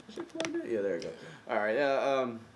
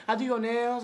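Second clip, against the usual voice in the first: mock East Asian accent, high pitched; 12 semitones higher, 3 dB louder, slower than usual. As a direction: imitate a nail salon accent, slow. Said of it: "He sound like Asian now".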